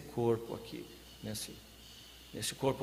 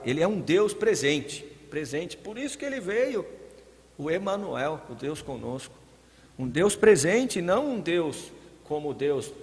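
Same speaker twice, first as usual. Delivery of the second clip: louder, higher preacher's voice, surging on key words; impassioned preaching; 3 semitones higher, 5 dB louder than usual. Real, not acted. Preacher proclaiming to the congregation that God is present, impassioned. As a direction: proclaim it with full force.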